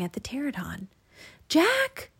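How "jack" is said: very high-pitched name call; high, rising call. A narrator's reading. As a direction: call down to get his attention. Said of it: "Annie called".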